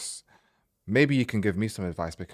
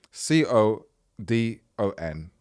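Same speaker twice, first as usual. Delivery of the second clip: slow spelling; slower than usual. Shown as a demonstration. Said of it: "why did I say it like that".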